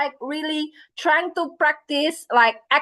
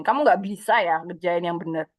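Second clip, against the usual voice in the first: lower-voiced mock nagging mum; a hint of a nagging mum; grumpy nagging mother; 6 semitones lower than usual. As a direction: imitate an irritated Indonesian mother. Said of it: "kalau lagi sewot ibu-ibu".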